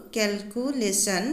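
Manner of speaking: কেলকুলেশ্যন slowly in four separate beats; measured syllable count on কেলকুলেশ্যন. Shown as a demonstration. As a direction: split কেলকুলেশ্যন into cal, cu, lay, shun. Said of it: "ইয়াত চাৰিটা syllable হ'ব".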